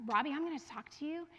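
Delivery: hushed, calm coaching voice; soft whispered reassurance. Retold or imitated. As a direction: whisper it steadily to settle the child. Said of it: "a voice that's calm like mine".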